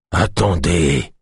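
slow, whining sick voice; whiny voice. A narrator's reading. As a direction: whine it from the bed. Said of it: "La voix géniarde".

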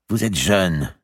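a lightly voiced older lady consoling; Madame de Bouville. A narrator's reading. Madame de Bouville comforting Marie, a lightly voiced lady. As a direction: gently persuade the grieving girl.

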